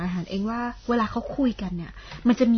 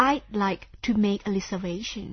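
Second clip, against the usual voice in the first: slow model sentence; much slower than usual. Shown as a demonstration. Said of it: "พูดประโยคเต็มๆว่า".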